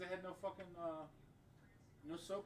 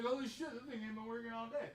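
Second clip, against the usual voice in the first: higher, louder startled exclamation; imitating surprise; 8 semitones higher, 5 dB louder than usual. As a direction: play a stranger shocked the pump is dead. Man quoted finding soap broken.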